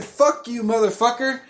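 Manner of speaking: high-pitched accusatory outburst; blurted insult. Retold or imitated. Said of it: "I literally blurt this shit out".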